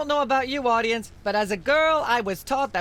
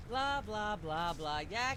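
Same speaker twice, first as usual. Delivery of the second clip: background chatter; 3 semitones lower, 14 dB quieter, slower than usual. Acted. Myra drones on beneath talk.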